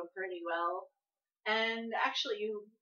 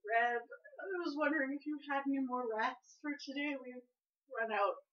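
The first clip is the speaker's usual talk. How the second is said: lightly voiced old man; 5 semitones higher than usual. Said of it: "older man".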